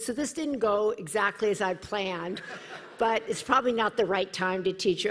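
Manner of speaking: laughing rueful aside; laughing admission. Retold or imitated. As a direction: concede it wryly through laughter. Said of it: "He said".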